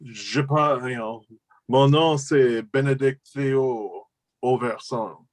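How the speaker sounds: put-on slow, haughty French accent; a rich kid's French accent. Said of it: "you want him to have that kind of".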